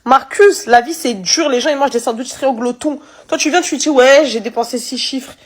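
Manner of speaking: pleading rebuke. Real, not acted. Scolding Marcus directly, pleading.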